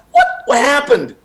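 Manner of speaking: high, baffled what happened; two friends in the elevator, stunned and confused; stunned disbelief. Retold or imitated. Retold bewilderment in elevator.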